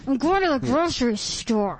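words squeezed through clenched teeth. Shown as a demonstration. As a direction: say it with your jaw locked tight. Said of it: "everything is funnier said through clenched teeth".

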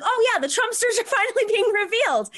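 high quote broken by a laugh; laughing agreement. Retold or imitated. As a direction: laugh through a misread agreement. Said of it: "And I was like".

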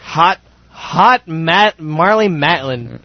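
slow, swooning gush over a crush; drawn-out, dreamy, adoring praise; airy gushing darling tone. Acted. Gushing over his celebrity crush.

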